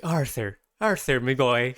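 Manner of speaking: lightly voiced, flowy Dublin Irish on "Arthur, me boy"; Dublin Irish accent. Podcast host teasing how Dubliners say Arthur, in a light Dublin Irish accent. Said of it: "specifically Dublin Irish accent where it's all, like, fluffy and, and flowy".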